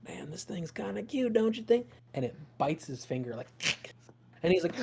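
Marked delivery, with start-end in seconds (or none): 0.1-1.9 hushed whisper to the party; whispered aside. Acted. Holb whispers to the party about the cute leaf. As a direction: murmur it so the leaf won't hear.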